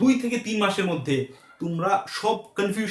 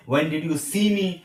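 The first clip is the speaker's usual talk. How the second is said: slow dictation; much slower than usual. Shown as a demonstration. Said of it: "dictating English model sentence".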